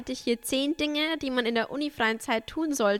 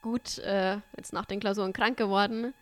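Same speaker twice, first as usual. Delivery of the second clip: stuffy nose. Real, not acted. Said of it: "meine verschnupfte Stimme".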